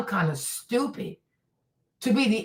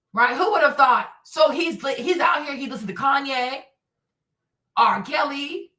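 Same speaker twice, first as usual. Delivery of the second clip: usual speaking voice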